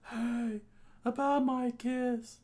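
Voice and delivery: high voice, slow, not whispered; high secretive voice. Acted. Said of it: "and he whispered".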